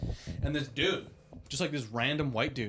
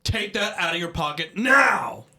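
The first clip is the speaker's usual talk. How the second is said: slow, loud mock tough-guy shout; biggest man voice; 4 semitones higher, 9 dB louder, slower than usual. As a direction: puff up and boom like a small man acting big. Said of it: "trying to use his biggest man voice".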